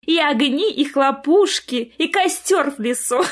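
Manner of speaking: high, gushing Snow Maiden; over-bright phony enthusiasm; false cheer. A narrator's reading. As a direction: list the fun with put-on merriment. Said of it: "фальшиво рассмеялась Снегурочка".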